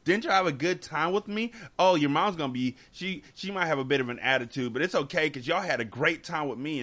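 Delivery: lightly voiced, gloating dad; mocking the dad. Mocking the ex's gloating drop-off words, a lightly voiced smug dad. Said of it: "what you were saying as he dropped".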